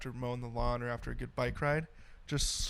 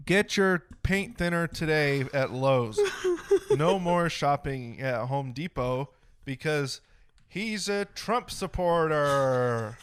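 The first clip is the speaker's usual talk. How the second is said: deliberate mock commercial, firmly projected; unenthusiastic ad read; 4 dB louder, slower than usual. Host making his co-host laugh with a fake ad, deadpan salesman. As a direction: sell it with dry, hollow enthusiasm. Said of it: "lack of enthusiasm in that was just stellar".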